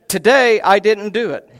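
wife delivering the punchline, laughing. Retold or imitated. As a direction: crack up on the last line.

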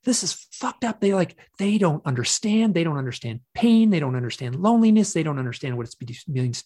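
high, loud, anguished complaint; imitated sobbing protest. Hypnosis client re-enacting protest about the beings, high anguished outburst. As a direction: act out an overwrought outburst, pounding each repeat. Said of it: "I'm sobbing and I'm going".

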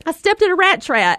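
put-on high, loud little boy wailing; kid in pain. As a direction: call out like a hurt, startled kid. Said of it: "And he's like".

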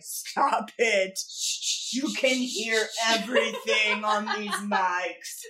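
slow, drawn-out quoted complaint; mock scolding. Retelling being told off for noise near the mics, slow mock scolding. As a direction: stretch out each word in mock exasperation. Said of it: "Kyler was just like".

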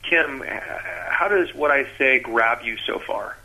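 slow, deliberate question. Shown as a demonstration. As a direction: ease the words out slowly to connect. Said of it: "you're slowing down on purpose like this".

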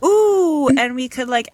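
gasp, high and eager; bright sudden idea; excited planning. Real, not acted.

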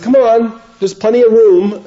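high, loud cheerful coaxing; breezy invitation. Retold or imitated. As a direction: wave him in with easy cheer. Friend urging him into the elevator.

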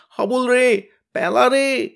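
high, loud wailing calls of despair; anguished wail. Acted. Tenida dangling from the kite calls his friends, anguished wail. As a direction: cry out each name in terror. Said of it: "তার আর্তনাদ শোনা যাচ্ছে".

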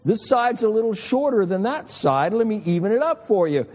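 an exacting engineer dad evening up the cut; dad evening the haircut again, mock fussy; dad's uh-oh. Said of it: "every time".

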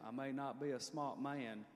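faint Forrest Gump voice, mildly imitated; Forrest Gump impression. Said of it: "That was a good impression".

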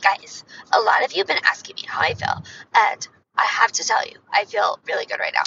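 breathy whispery pop star voice; a pop singer's voice. Shown as a demonstration. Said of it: "it does not sound like a pop singer".

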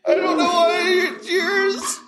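high squeaky chipmunk filter; sped-up cartoon voice. Real, not acted. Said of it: "another voice besides the chipmunk".

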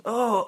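high imitated groan of effort; concierge's straining "oh". Concierge heaving the fallen man up, high straining "oh". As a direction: mimic a strained "oh". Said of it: "trying to pick this man up".

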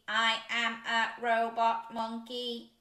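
slow, even robot voice. Pretend. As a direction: speak like a robot monkey. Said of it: "Can you be a robot too?".

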